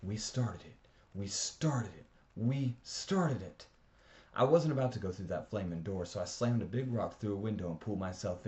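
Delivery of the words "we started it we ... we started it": guilty repeating. A narrator's reading. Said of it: "All I could think was".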